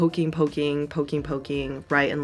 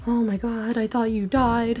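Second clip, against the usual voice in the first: higher, breathless relief; mock worried mom; 7 semitones higher than usual. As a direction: imitate mom's panic. Mother relieved and shocked.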